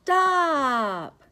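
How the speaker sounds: high, loud call to halt; shouted stop. Acted. Character calls out to Mister Gilly, loud stop. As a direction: yell it to stop the truck.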